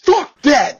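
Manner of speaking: explosive imitated shout, high and loud; booming voice. Sergeant major refusing the Marine's excuse, imitated explosive shout. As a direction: burst out like an enraged superior. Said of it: "this booming fucking voice".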